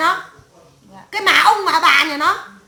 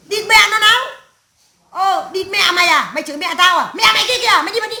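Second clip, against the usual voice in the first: acted quarrel; 3 semitones higher, 3 dB louder than usual. Husband and wife trading curses about mothers, acted anger. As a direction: throw the curses out in a heated, raised voice. Acts out couple's swearing quarrel.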